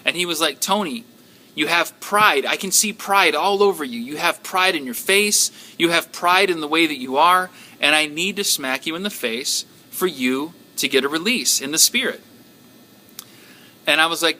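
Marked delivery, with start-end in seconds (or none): 0.6-12.2 a touch of frustration, pitched up a little, pressing the point; lightly voiced exasperated martial artist; frustrated kung fu man. Retelling the dream guy scolding Tony, mildly frustrated. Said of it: "he got really frustrated".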